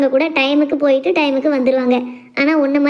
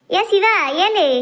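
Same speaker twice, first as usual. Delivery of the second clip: higher-pitched call after someone; 4 semitones higher, much slower than usual. Acted. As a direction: call after a son who walks on past. Mother calls after son walking past.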